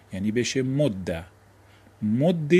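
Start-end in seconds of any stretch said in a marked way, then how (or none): 0.6-1.2 «مده» said mod-da, doubled d then "a"; fatha ending. Shown as a demonstration. Teacher listing the allowed forms, «مده» said as mod-da. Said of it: "یا فتحه". 2.0-2.5 «مد» said mod-de, doubled d then "e"; kasra ending. Shown as a demonstration. Teacher listing the allowed forms, «مد» said as mod-de. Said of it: "یا کسره".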